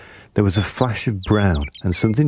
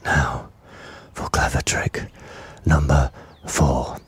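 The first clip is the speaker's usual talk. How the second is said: slow, sly crocodile whisper; whispered to himself; 4 semitones lower, slower than usual. A narrator's reading. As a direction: whisper the plan slowly, secretly. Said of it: "he whispered to himself".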